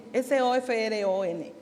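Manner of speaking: spelling-bee style, letter by letter; name each letter of the word in turn. Shown as a demonstration. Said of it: "me parezco a los spelling americanos".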